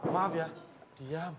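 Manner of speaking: soft apologetic hush. Real, not acted. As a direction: shrink the command to a meek murmur. Softened retake after being scolded. (pelan dan lembut, minta maaf)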